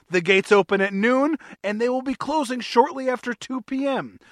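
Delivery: hammed-up ad read in a vague French or British accent. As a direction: sell the cat show like a cheesy announcer with a vague French or British accent. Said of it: "I think I was going for French or British".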